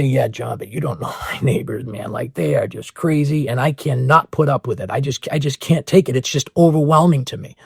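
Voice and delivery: mock the skeptic who can't stand the neighbors; a hint of an exasperated skeptic, low and muted; whiny doubting listener. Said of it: "And then you're gonna say".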